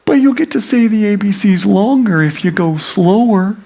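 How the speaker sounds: put-on voice, strong and insistent; persuading judge. Rival judge tempting the one reciting, insistent. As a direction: coax loudly in a character voice.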